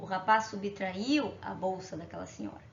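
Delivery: mais baixo e mais suave, com delicadeza; suave e tranquilo. Shown as a demonstration. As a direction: diga "subtraiu" com doçura, sem rudeza. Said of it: "de uma forma mais tranquila". (tom delicado de eufemismo)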